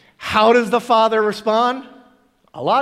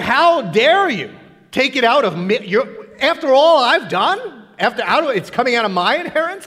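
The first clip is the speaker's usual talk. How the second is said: mock angry older son; 4 semitones higher, 3 dB louder than usual. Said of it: "He's furious about this".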